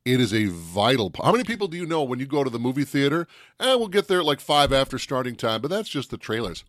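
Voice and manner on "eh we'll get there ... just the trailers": lightly acted shrug, high at first; mock dismissive. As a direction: brush it off like a casual moviegoer. Voicing casual late moviegoers.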